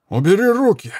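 put-on a drunk soldier shoving off a hand, yelling; screaming. A narrator's reading. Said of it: "зашёлся криком Антонио".

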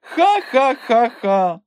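high, slow, drawn-out mocking laugh; scornful cackle. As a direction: laugh him down, each ha stretched. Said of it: "розреготалася вона".

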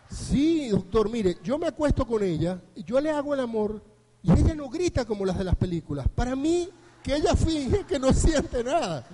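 loud, emphatic acted grievance; insistent complaint. Patient complains to doctor about his wife, insistent.

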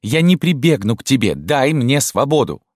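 высокий визгливый выкрик; взвизгни на мать; визгливо. A narrator's reading. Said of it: "визгливо проговорила Рима". (Рима визгливо отвечает матери)

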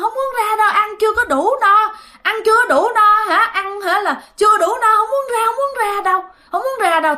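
giọng cao đều, kêu nài; giả giọng khóc. Retold or imitated. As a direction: vong đói không chịu ra, giả khóc. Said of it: "khóc lên". (nhại giọng khóc mè nheo)

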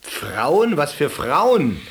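surprised question. Acted. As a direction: ask in real surprise. Nurse surprised by the answer.

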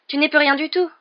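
high, loud, rattled outburst; shaken exclamation. A narrator's reading. Shaken Hermione breaking in on Harry's story, shaken exclamation. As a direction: exclaim it in shock, voice jumping up. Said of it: "s'exclama Hermione ébranlée".

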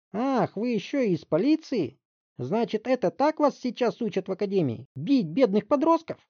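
high, loud indignant screech; shrieking mother. Acted. Mother shrieking at the detective. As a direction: shriek at the cop. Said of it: "Не успокаивалась мать Барри".

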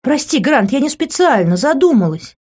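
high-pitched pleading excuse; plaintive apology. A narrator's reading. Woman apologising to the man she drenched, plaintive plea. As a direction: plead pitifully for forgiveness. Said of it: "жалобно посмотрела на него".

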